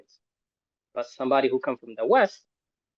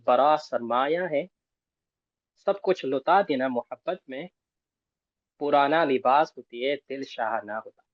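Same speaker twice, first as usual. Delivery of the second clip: reading a poem aloud in Urdu to the group; reciting Urdu poem. Shown as a demonstration. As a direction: recite the couplet with feeling, unhurried. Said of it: "A poet say in Urdu".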